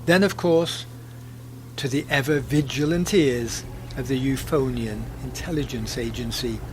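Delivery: lively storyteller narration; story narration. A narrator's reading. Podcast narrator telling the Banania tale in storyteller style. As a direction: spin the tale for listeners.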